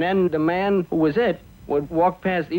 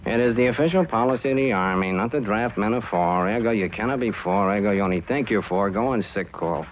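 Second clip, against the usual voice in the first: lightly voiced army official, slightly lowered; sergeant's official reply; 5 semitones lower than usual. Sergeant tells the child official policy, official recital. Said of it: "He went to the sergeant".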